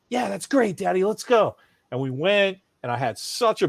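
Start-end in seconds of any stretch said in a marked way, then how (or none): 0.1-1.6 delighted little son. Retold or imitated. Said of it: "He's like".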